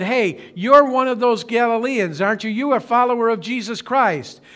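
a hint of a sharp young girl accusing. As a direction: point the finger, lightly voiced. Servant girl accusing Peter.

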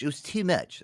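mock emphatic repeat. Host joking about the show's schedule, mock emphatic.

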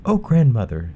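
put-on bright, high young girl; a sweet, polite little girl. Girl at the bed.

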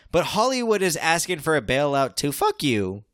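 words smeared together, tipsy; slurred speech. Real, not acted. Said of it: "You're slurring your words".

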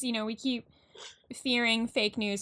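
words pushed out through a burp; talking through a burp. Real, not acted. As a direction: burp while saying it. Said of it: "I just talked through a burp".

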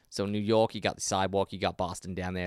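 lightly attempted New York accent. Shown as a demonstration. Co-host showing how New Yorkers talk, tentative New York accent. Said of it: "say Boston in a New York accent".

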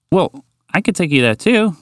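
high, bright-pitched friendly offer; smiling offer. Acted. Horse offering Walter a trip up, smiling. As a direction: offer it with a smile in the voice. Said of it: "Unpredictable Horse smiled".

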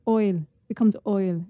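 "oil" said slowly for I'll, Irish-style. Shown as a demonstration. Cohost coaching Irish contraction, slow "oil". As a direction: stretch "oil" with a round oy vowel. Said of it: "done an Irish accent".

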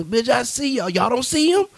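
half-joking disbelief, pointing at what nobody else sees; incredulous yelling. Retold or imitated. To a podcast cohost, acting out spotting the aliens: rising incredulous cries.

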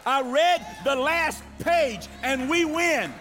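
rising, insistent declaration; fervent sermon cry; full-force preaching. Acted. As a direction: preach it to the crowd.

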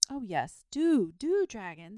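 put-on eager boy, high and loud on the plea; delighted. A narrator's reading. Boy urging the dragon to go along, delighted. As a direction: beg with delight, leaping up in pitch. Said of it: "said the boy delightedly".

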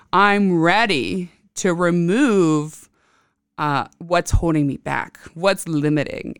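sincere affirmation. Shown as a demonstration. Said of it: "looking into your soul and saying".

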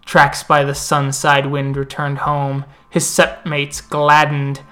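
epic fantasy narrator. Acted. NPC tells a legend at the moot.

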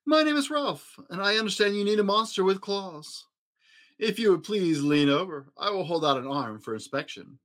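a lightly voiced dainty monster; high silky voice. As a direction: glide through it high and silky. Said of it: "he said in a high, silky voice".

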